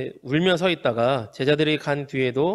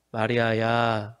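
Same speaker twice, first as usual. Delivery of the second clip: tender call; 5 semitones lower, much slower than usual. Retold or imitated. Jesus at the tomb tenderly calling the weeping Mary. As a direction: call her name gently, full of love. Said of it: "마리아를 불러주십니다".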